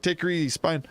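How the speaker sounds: high, sing-song Moonanite-style cartoon voice; lightly voiced cartoon Moonanite thanking a streamer. Streamer mimics how the Hanar talk, high sing-song cartoon voice. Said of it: "They talk like this every time they talk".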